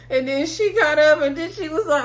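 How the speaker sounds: real laughter breaking through the story; laughing while telling. Real, not acted. Fan recapping Shelby's reaction, laughing.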